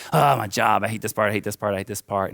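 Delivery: mock exasperated complaint, loud at first then easing; re-enacted grumbling, tailing back to normal; retold frustrated griping. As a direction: gripe in mild imitation of yourself complaining. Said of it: "I'm just, like, so frustrated".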